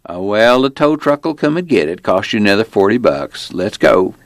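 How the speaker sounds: offhand Virginia lawman; small-town cop. Acted. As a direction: play a folksy officer brushing off her worry. Narrator plays the small-town cop.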